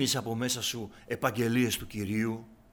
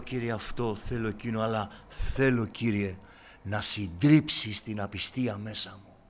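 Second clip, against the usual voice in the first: ordinary talk, nothing marked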